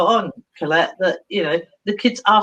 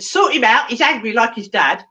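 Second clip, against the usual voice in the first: retold exasperated order; exasperated mum; 2 semitones higher than usual. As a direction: hand him over in exasperation. Mum dumps boy and runs.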